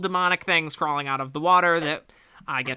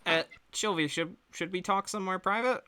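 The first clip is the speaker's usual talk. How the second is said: discreet hushed ask; 3 semitones higher, 7 dB quieter than usual. Acted. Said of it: "and Deborah says".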